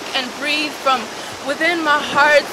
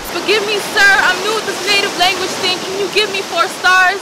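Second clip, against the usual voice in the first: sheepish mock plea; 4 semitones higher, 6 dB louder than usual. Mock customer pleading for review.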